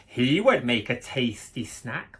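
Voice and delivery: wolf voice. Acted. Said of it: "the wolf said to himself".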